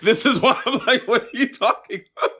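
high-pitched, laughing disbelief; laughing exasperation. Real, not acted. Host cracking up at co-host's gifted-sex point, laughing. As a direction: squeal it through laughter.

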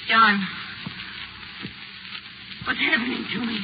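wife begs her husband for help, growing terrified; rising panic. Acted. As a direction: call for help as fear takes hold. Wife feels herself changing.

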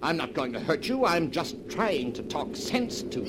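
urgent reassurance. Acted. Talking down wife with knife.

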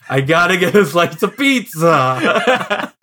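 lightly put-on Chicago accent, drawn out; slow Chicago accent through laughter; mock Chicago accent. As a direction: tease with a hint of Chicago accent. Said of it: "that's what everyone in Chicago says".

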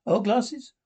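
"glasses" rising high in a teasing question; mocking question.

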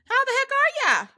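high, bright hello to a friend; excited greeting. Real, not acted. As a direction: call it out big and cheerful. Greeting guest, high bright call.

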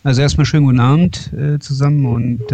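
talking with a slight cold; a bit under the weather voice; sounds like a cold. Real, not acted. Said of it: "ich bin ein bisschen erkältet".

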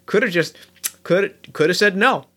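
a lightly voiced grumbling goblin; grumbly goblin. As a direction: mutter your regrets like a homesick woodsman. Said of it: "Chops gets real grumbly".

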